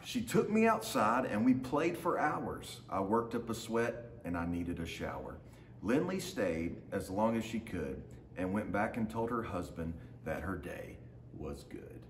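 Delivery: lively storybook reading in the dog's voice; reading to children. A narrator's reading. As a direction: read it like a picture book for a class. Teacher reads picture book aloud.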